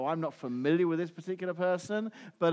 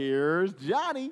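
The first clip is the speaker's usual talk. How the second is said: put-on American accent. Explaining a famous show introduction, the speaker says it in an american accent. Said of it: "which I said with my American accent there for you".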